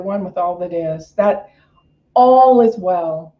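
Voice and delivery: minister's affirmative prayer; closing prayer. Acted. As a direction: pray the congregation out with conviction.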